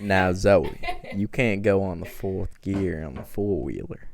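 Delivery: low Southern drawl; Southern drawl attempt. Shown as a demonstration. Friend tries Papa's accent, low Southern drawl. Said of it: "Let's try the slow drawl thing".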